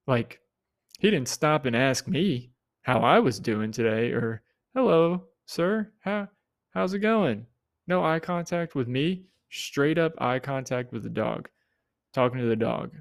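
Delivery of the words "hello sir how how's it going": mock polite greeting. Greeting he wished for.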